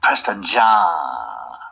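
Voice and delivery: a hint of a goofy childish puppet; lightly voiced silly puppet. Host mocks puppet's childish voice, lightly done. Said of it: "Why you doing these childish voices?".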